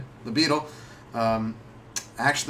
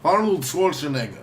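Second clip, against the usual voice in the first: mock French accent. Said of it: "do it in a French accent".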